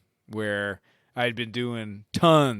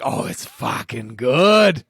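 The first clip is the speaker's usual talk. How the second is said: put-on slow, drawled Maine accent; 8 dB louder, much slower than usual. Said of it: "They were like".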